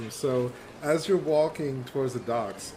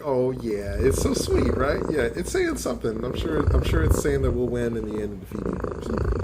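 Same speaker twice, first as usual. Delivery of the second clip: indulgent cooing; 4 dB louder than usual. Acted. Keith scratches cat's ear, indulging it.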